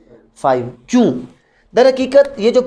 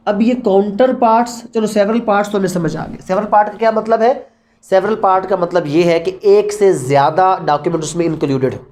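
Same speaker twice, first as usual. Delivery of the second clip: ordinary talk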